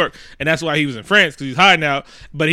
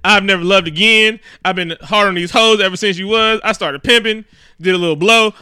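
mock angry rant; 3 semitones higher than usual. Drunk Rick ranting at Elsa, hammed-up angry tirade. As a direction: let her have it, half-joking. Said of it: "he just let her have it".

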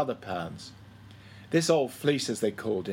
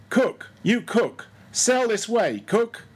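much higher, drawn-out hail; calling out; 9 semitones higher, slower than usual. A narrator's reading. Stubb summons the cook from his galley, a high slow hail. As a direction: sing out across the ship, slow and high.

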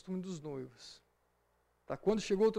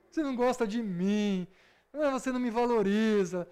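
emotional blackmail; 4 dB louder than usual. Retold or imitated. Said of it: "chantagem emocional".

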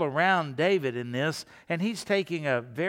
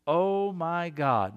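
heartfelt; much slower than usual. Shown as a demonstration. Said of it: "in a heartfelt way".

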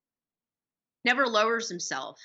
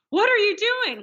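high, louder retold outburst; indignant challenge; 12 semitones higher, 6 dB louder than usual. King catches his speech coach on the throne, mock indignant. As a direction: imitate someone appalled and demanding an answer.

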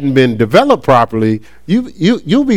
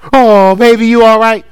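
mock baby talk; 5 semitones higher, 4 dB louder than usual. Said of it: "You know, baby 'em".

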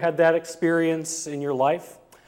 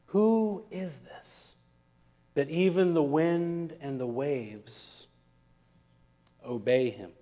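awed; 3 semitones lower, 8 dB quieter than usual. A narrator's reading. Awed disciples.

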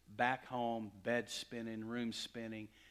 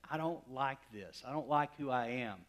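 louder, pressing each I don't; retold desperate plea; 3 semitones higher, 9 dB louder than usual. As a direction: plead it like a man at the end of himself. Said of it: "I was crying out to him".

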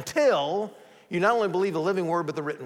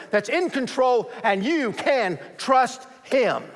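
Jesus reassuring; 3 semitones higher than usual. Acted. Preacher voicing Jesus telling the church he is in control, firm and rising. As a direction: proclaim his power and reassure them. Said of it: "he's saying to us".

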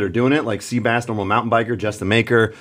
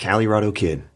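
sultry voice; 3 semitones lower than usual. Shown as a demonstration. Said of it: "In my sultry voice".

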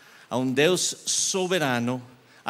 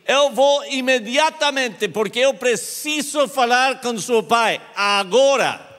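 loud, higher, eager; eager and loud, ready to go now; urgent eagerness; 11 semitones higher, 6 dB louder than usual. Retold or imitated. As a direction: rush the words out urgently. Rushing to see the father.

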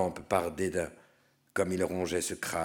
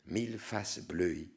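usual speaking voice

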